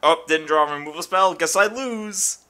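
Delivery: mock concession, drawing out the last words; resigned opponent. Voicing the opponent conceding the game.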